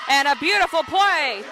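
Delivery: punchy, lifted play-by-play; excited call. Real, not acted. Commentator hailing a volleyball play at the net, excited. Live call of a winning rally.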